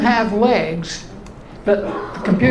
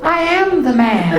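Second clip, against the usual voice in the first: a touch higher, laughing; pitched-up voice insisting to the phone caller; high protest; 5 semitones higher than usual. Retold or imitated. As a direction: insist on being the man, voice going up. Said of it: "voice that sounds like Martha Stewart".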